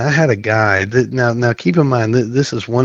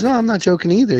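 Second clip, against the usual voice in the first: higher, firm sponsor voice; lightly voiced stern sponsor; 12 semitones higher than usual.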